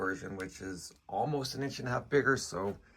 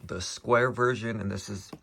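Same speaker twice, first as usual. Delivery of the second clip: mouth full. Real, not acted. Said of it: "sorry, I got gum in my mouth".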